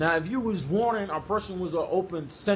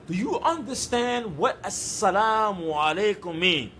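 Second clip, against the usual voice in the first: slow, emphatic retold challenge; pointed challenge; slower than usual. Preacher retelling his reply to the message's sender, slow pointed challenge. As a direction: draw the question out, stressing it.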